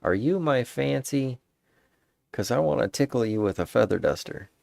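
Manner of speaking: half-joking flirt voice; cheesy pickup line. Pretend. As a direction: ham up the cheesy come-on. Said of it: "change it and say".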